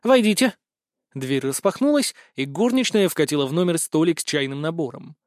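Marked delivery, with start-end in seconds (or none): 0.1-0.5 raised call to the door. Acted. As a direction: call through the closed door, louder. Calling to the door. (громкий оклик в дверь)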